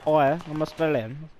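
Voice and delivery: slow put-on Aussie accent; drawn-out, playful Australian voice. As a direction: lay on a mock Australian accent. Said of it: "That accent though".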